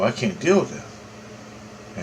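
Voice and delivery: slow breathy whisper. Retold or imitated. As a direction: whisper it slowly, drained. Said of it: "I go".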